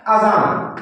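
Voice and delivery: अजान with both a sounds short and quick; short alif. Shown as a demonstration. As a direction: say अजान briskly, no drawn-out a. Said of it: "ये जल्दी से पढ़ा जा रहा है".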